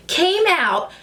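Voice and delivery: a laugh breaking into the words; flustered laugh through the words. Real, not acted. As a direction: start cracking up mid-sentence. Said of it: "I'm flustered".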